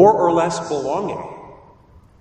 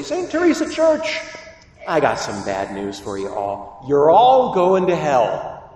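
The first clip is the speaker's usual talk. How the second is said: angel herald. Retold or imitated. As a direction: announce doom like a stern angel. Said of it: "an angel ... and say".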